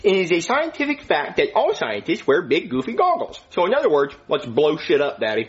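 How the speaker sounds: put-on goofy bratty kid voice; whiny mischievous boy; Jeffy voice. The speaker plays Jeffy in skit.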